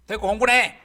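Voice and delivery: loud, high, snapping command; angry mother. Acted. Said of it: "하고 막 화를 냅니다". (버럭 화내는 엄마)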